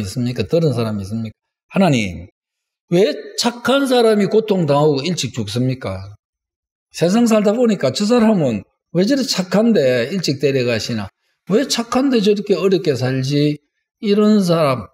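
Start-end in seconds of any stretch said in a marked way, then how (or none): 1.7-13.6 mildly aggrieved questioning of God; 따지는 기도. Acted. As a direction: put a puzzled complaint to God, voice lifting a little. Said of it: "하나님께 따지는 사람". (살짝 따지듯 하소연하는 기도)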